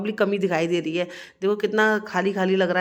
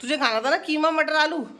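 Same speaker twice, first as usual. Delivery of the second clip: imitating mother-in-law; 6 semitones higher than usual. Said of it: "सास बोली".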